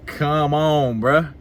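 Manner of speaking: loud, incredulous protest; exasperated come on. Retold or imitated. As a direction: raise it up, you can't believe it. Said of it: "And it's like".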